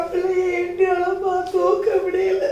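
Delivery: high-pitched tearful lament; crying wail. Acted. Mother unable to lift her child, crying wail. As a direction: wail it out through sobs.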